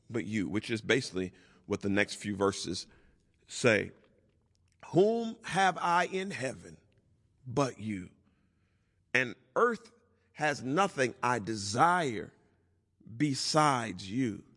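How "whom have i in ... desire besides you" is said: slow, spaced-out verse reading; solemn scripture reading. Real, not acted. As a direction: read it out phrase by phrase, with long pauses. Reads the psalm verse aloud.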